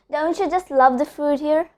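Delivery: "Don't you" run together as doncha; assimilated "Don't you", said doncha; linked words. Shown as a demonstration. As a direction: link "Don't you" into one word, doncha. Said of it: "link the words".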